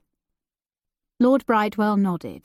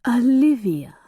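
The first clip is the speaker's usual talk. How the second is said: full unvoiced whisper of the name; 2 semitones higher, 3 dB louder than usual. A narrator's reading. Earl repeating her name to himself, hushed whisper. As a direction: breathe the name with no voice at all, falling.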